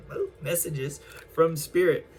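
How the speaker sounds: a light Southern twang on the words. Pretend. Tarot reader playfully says Spirit's messages in Southern twang. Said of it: "almost in that Southern twang accent".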